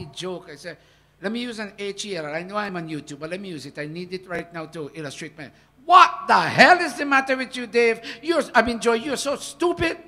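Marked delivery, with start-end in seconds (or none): 5.8-10.0 loud angry snap, pitched high; barking dog voice. Shown as a demonstration. Preacher voicing the angry dog within, loud scolding. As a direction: bark it like a snarling dog. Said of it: "That's the dog in me talking".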